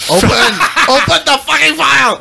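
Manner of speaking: high, impatient outburst; exasperated yell. Real, not acted. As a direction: order it out in comic frustration. Impatient with a file not opening.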